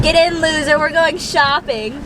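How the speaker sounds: lightly voiced movie quote to a friend in the car; Mean Girls quote. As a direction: toss it off like the queen bee. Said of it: "it's from Mean Girls".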